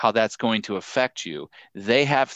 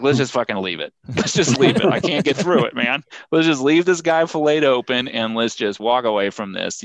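slightly raised, louder mock panic; squeamish surgeon giving up; 2 semitones higher, 4 dB louder than usual. Surgeon mocked as quitting an open heart surgery, louder mock panic. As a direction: plead to quit like a queasy surgeon. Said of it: "And he's like".

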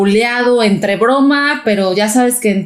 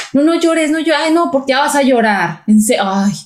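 higher, eye-rolling "no llores"; dismissive parent; 3 semitones higher than usual. Retold or imitated. Parent telling their child to stop crying, eye-rolling. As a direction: wave the child's tears away.

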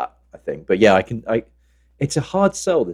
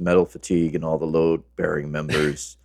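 deadpan inspector; 3 semitones lower than usual. Acted. Reciting film character's firehouse verdict.

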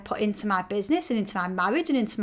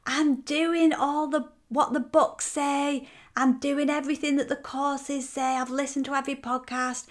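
lightly voiced whiny frustrated woman, higher; 4 semitones higher than usual. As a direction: mimic a fed-up woman complaining it isn't working. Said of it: "they're like".

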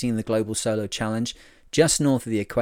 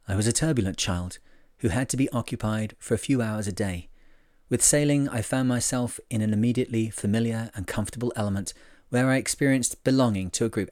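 book reading voice. Shown as a demonstration. Vlogger reads a French skipper's words in book voice. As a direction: read it like a grand audiobook narrator. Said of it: "I'll put on my, uh, my book reading voice".

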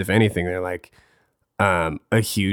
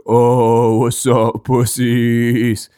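brash small guy trash talk, higher and louder; mock tough greeting, pitched up; friend Bryce impression; 4 semitones higher, 6 dB louder, much slower than usual. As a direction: imitate a wimpy guy talking big. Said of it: "he talks like this".

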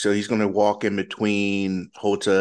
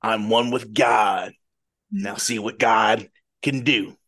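lightly voiced zealot, slowing in the middle; a hint of defiant holy man; Brother Faust. Brother answers the attack after being slashed, lightly voiced defiance. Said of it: "does the brother say anything".

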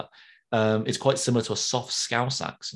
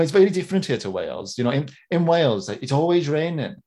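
lilting put-on Welsh accent; Rob Brydon; 2 semitones higher, 3 dB louder than usual. Welsh comedian joking about the endless rain, Welsh accent. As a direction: do a comic's Welsh accent impression. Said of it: "That's my, that's my Rob Brydon".

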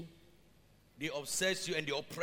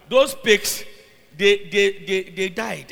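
loud emphatic shout; loud preaching shout; 12 dB louder, slower than usual. Real, not acted. Preacher shouts to the church that the pigs died. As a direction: hammer it home to the crowd.

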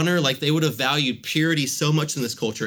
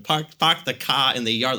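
mimicked New England accent, R-less "car". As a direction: imitate a mother-in-law's broad New England speech. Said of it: "Like, she really does that".

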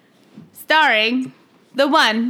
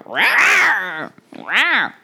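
tiny squeaky trying to roar. Pretend. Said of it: "That's an angry cougar".

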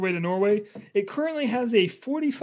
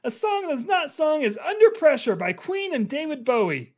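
lightly voiced cheerful assistant; 6 semitones higher than usual. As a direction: recite it like a chirpy helper. Genie answers the question.

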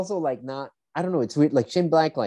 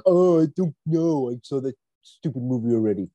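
mock reluctant co-host. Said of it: "I believe those were your words".

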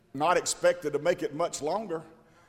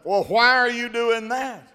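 puzzled question; 7 semitones higher, 6 dB louder than usual. Retold or imitated. Preacher retells questioning man.

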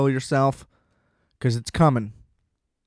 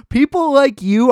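higher, louder accusing jab; mock angry; 10 semitones higher, 6 dB louder than usual. Ranting at listeners who liked the movie, mock angry shout. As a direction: point the finger and half-shout it. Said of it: "but I'm angry".

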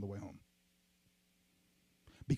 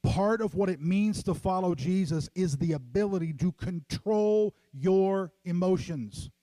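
building preaching; 2 semitones higher than usual. Acted. Preaching emphatic point.

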